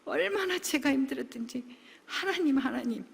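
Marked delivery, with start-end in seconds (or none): 2.1-3.0 high, sobbing cry of protest to God; retold loud wailing prayer; wailing complaint. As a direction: wail it out, voice breaking into tears. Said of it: "막 대성통곡을 하고 그랬어요".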